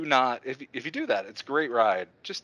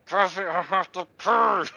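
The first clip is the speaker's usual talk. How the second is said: urgent plea; 8 semitones higher, 4 dB louder than usual. Retold or imitated. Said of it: "And I'm like".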